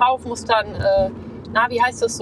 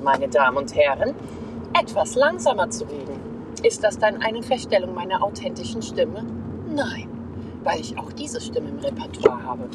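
extremely deep bass voice; 3 semitones lower, 4 dB quieter than usual. Shown as a demonstration. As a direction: push the voice down very deep. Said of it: "jetzt kommt die tiefste Stimme".

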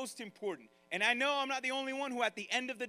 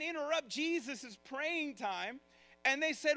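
ordinary talk, nothing marked

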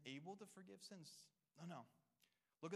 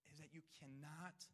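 earnest whisper; 4 dB quieter than usual. Real, not acted. Pastor stressing a serious point.

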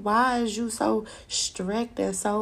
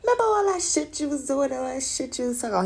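high, fast mock challenge; imagined confrontation; 5 semitones higher, much faster than usual. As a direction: act out a rapid, high-pitched call-out. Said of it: "He gonna be like".

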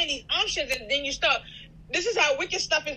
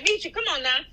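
mom lecturing son; 5 semitones higher than usual. Retold or imitated. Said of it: "This is how I'm talking to him".

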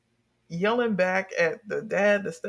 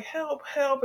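mock plea for help; 7 semitones higher, 4 dB quieter than usual. Retells girl's plea, softer.

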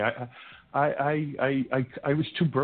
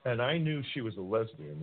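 ordinary talk

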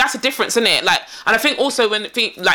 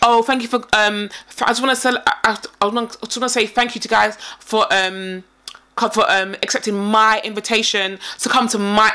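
halting thanks with MY leaned on; imitated stress on MY. Woman thanking guests for accepting her invitation, MY emphasised. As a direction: put weight on "my", mimicking her. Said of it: "and that's how she talks".

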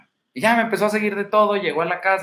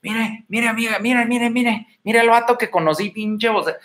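put-on higher, gushing girl showing off to her friend; excited girlfriend; 6 semitones higher than usual. Woman showing her friend a voice note, mock excited. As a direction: squeal it like she's bragging to her girlfriends. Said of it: "que se los enseñe a sus amigas".

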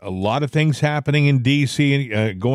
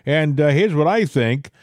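sample caller message; 5 semitones higher than usual. Retold or imitated.

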